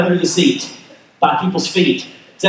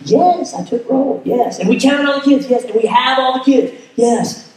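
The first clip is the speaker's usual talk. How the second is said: imitating an insulted wife, higher-pitched; insulted reply; 4 semitones higher than usual. Insulted educator answering her husband's roll-call question, indignant. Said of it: "this is, like, insulting to her".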